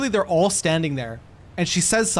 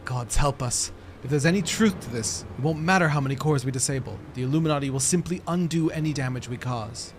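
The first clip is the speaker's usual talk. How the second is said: lightly acted dread rising to pleading; dismayed game character; 3 dB quieter than usual. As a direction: plead with the chief for a plan. Voices game dialogue.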